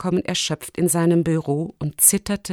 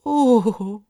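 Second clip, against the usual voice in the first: relieved "oh"; 3 semitones higher than usual. A narrator's reading. Rector takes the drops, relaxes.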